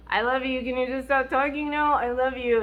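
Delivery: impatient, dismissive I love you. Retold or imitated. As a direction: brush him off with it.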